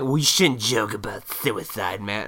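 slow put-on objecting voice; mock objector. Imitating someone objecting to suicide jokes, mock objection. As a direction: drag it out as a mocked scold. Mimics an objector to his joke.

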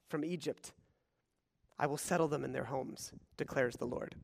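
dramatic reading, loud passionate peaks then hushed endings; scripture reading. Acted. Preacher reads Hosea to congregation, passionate then hushed.

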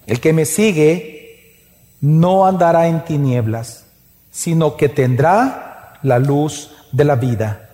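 slow, measured Bible reading; scripture reading. Real, not acted. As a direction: read the verse slowly and solemnly, in pauses. Reads the verse aloud. (lectura bíblica lenta y solemne)

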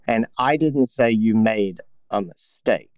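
didn't punched, slow, falling; slow take with didn't stressed. Shown as a demonstration. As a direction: hit the word didn't. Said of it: "where do you put the emphasis on that?".

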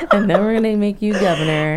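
repeating it through laughter; laughing. Real, not acted. Friend cracking up repeating Ramona's line, laughing. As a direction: giggle the words out.

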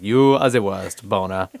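put-on drawn-out comic French accent; mock French accent. French guy after Boner ran away, hammy French accent. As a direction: play a French guy, slowly stretching the first word. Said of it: "a French guy there".

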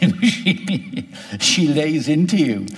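a Welsh nurse laying into the doctor; indignant Welsh scolding, imitated; Welsh accent. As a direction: put on a Welsh lilt and tell him off. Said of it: "I can only do my Welsh accent".

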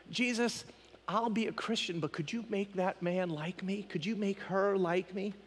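soft, bargaining plea; soft mock prayer. Single believer bargaining with Jesus over romance, soft plea. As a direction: plead softly, as in private prayer.

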